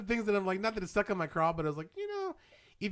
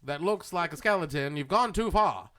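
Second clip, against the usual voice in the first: mock folksy voice; 3 dB louder than usual. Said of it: "We should have done this voice".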